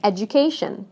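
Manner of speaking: edu-CA-tion, weight on CA; stress before the suffix. Shown as a demonstration. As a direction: punch CA in education. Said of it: "stress moves right to the syllable".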